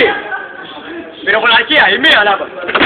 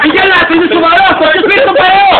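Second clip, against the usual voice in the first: laughing; 5 semitones higher, 3 dB louder than usual. Real, not acted. Tells recruit not to laugh.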